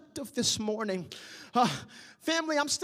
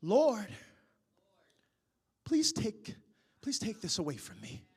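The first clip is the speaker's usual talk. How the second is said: quiet pleading; 4 semitones lower, 5 dB quieter than usual. Acted. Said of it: "I begin to hear Paul plead".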